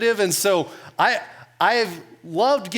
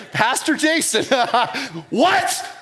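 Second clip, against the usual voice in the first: outraged shout; 5 semitones higher, slower than usual. Retold or imitated. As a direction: yell it as you leap from the chair. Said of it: "I jump out of my chair".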